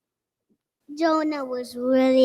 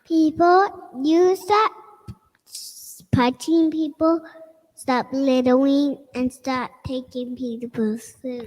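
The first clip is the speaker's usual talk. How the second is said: a child playing Jonah warning the city; child preaching as Jonah. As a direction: boom it out like a little prophet.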